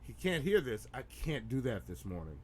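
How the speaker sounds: low, soft muttering to oneself; quiet aside. Pretend. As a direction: keep it down so the guest can't hear.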